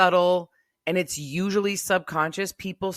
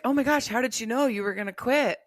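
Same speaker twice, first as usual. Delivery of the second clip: higher-pitched, quick astonishment; mock amazement; 5 semitones higher, faster than usual. Imagined listener asking how she knew, amazed.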